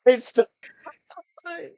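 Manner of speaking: loud, high and thrilled; excited outburst. Real, not acted. Player thrilled at the famous line, loud outburst. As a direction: burst out with giddy excitement.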